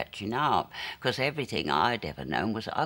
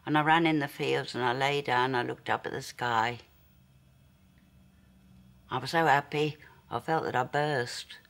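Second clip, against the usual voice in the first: raised, louder, elated remembering; 4 semitones higher, 5 dB louder than usual. Acted. Girl recalling running in the fields, so happy, elated. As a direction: relive the joy of a perfect day out loud. Reliving her happiest childhood day.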